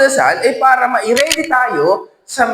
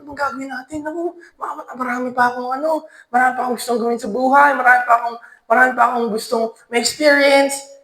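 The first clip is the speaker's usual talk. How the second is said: scared; 2 semitones higher, faster than usual. Acted. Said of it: "takot na takot".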